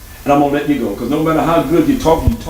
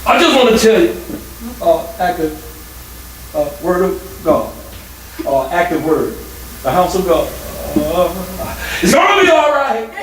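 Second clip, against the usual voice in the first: mock old-time preacher. Shown as a demonstration. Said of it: "if I sit up here and say".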